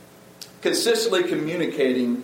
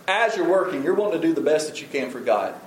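usual speaking voice

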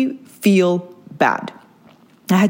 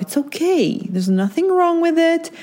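higher, gentle reassurance to yourself; comforting myself; 8 semitones higher than usual. Shown as a demonstration. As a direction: soothe yourself like a friend would. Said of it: "I had to tell myself".

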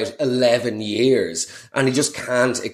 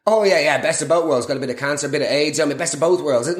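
mock parody voice; faster than usual. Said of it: "that's like saying".

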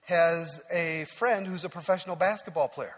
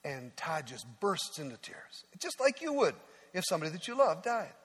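ordinary delivery

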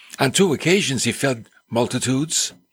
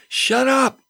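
hushing him; 11 semitones higher than usual. Acted. Crowd hushing Bartimaeus.

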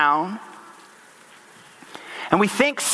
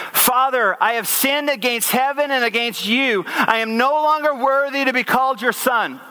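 higher-pitched, evenly flowing recitation; recited apology; 5 semitones higher than usual. Acted. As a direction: read out the apology line without a break. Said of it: "This is what it says".

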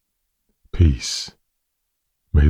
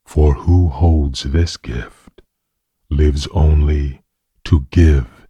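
gentle and simple. Acted. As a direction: offer each word like a blessing. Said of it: "gently and simply whispered in his ear".

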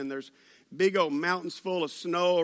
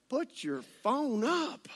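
slow, higher-pitched telling-off, rising at the end; imagined scolding; 6 semitones higher, 4 dB quieter, slower than usual. Retold or imitated. To teenage girl on her phone, exasperated telling-off. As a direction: stretch each word at someone not paying attention. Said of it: "I wanted to tell her".

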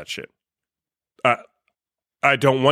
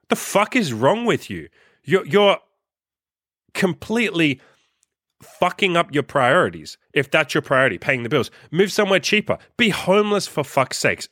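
exasperated rant; 5 semitones higher than usual. Real, not acted. Ranting at people who hate jobs.

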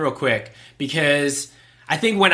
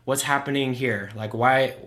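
calm concerned asking; 3 semitones lower than usual. Retold or imitated. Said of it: "I was like".

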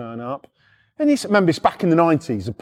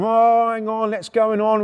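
flustered sergeant; 7 semitones higher than usual. Retold or imitated. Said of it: "he's like going".

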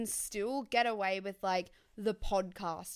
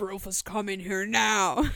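mock command; 5 dB louder than usual. Commanding Rufus in skit.

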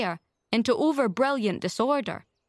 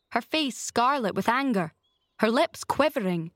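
plain reading voice

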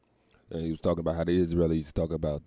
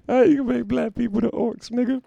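laughing disbelief; 4 dB louder than usual. Real, not acted. Laughing incredulous complaint.

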